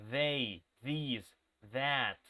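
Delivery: They, these, that with a voiced th at the start; spaced model words, buzzing th in They, these, that. Shown as a demonstration. Teacher showing students the sound, They, these, that with voiced th. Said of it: "that's the way you pronounce this".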